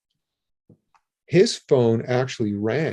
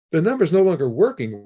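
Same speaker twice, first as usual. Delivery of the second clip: higher and faster, in disbelief; incredulous repeat; 5 semitones higher, 3 dB louder, faster than usual. Retold or imitated. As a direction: throw the words back, stunned.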